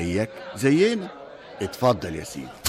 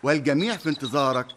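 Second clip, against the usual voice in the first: formal royal announcement; 3 semitones higher than usual. Acted. يعلن بدء الاحتفال للملك.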